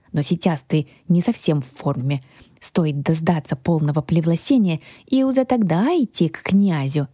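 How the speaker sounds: lightly voiced lisping little dragon; little guardian dragon, coaxing. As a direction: explain patiently as a small lisping dragon. (шепелявый дракончик-хранитель, наставительно)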